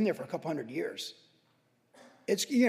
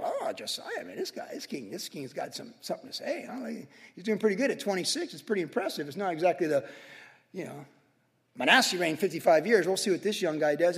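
skeptical murmur. Retold or imitated. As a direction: mutter it half-impressed, half-cynical. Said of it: "there's always people going like".

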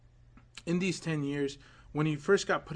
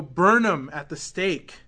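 crowd demand; 7 dB louder, slower than usual. Retold or imitated. Crowd calling for burning.

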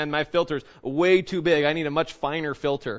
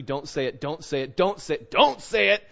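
a conscience warning that swells; inner warning. Retold or imitated. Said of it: "something's telling you".

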